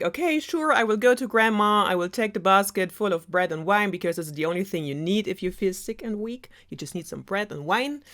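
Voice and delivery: lightly voiced eager child; eager girl. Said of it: "the little red is like".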